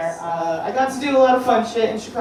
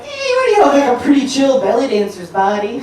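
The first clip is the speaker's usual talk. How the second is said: I'm like; 2 semitones higher than usual. Retold or imitated. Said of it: "I'm like".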